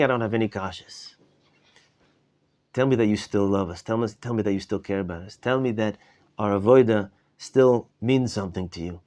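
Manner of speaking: a touch of retold tearful pleading, softening then rising; tearful plea. Rebbe at the Seder begging God for love, mild tearful plea. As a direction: gently beg for reassurance, a mild retold sob in the voice. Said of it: "until he's literally crying".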